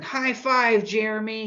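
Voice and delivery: bright upbeat high five; excited babysitter. Shown as a demonstration. Babysitter greeting a six-year-old, over the top. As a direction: hype up the kid. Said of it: "really expressive".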